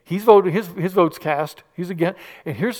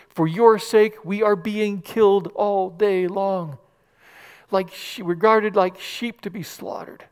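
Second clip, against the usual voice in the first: slow solemn reading; 2 semitones higher, slower than usual. Acted.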